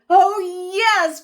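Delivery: high, loud eager cheer; cried. Acted. Kids accepting story hour, high and loud. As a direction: shout yes happily. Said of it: "cried the kids".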